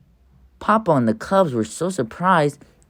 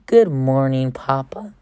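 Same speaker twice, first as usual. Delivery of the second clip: sweetly. Acted. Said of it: "as nice as you please".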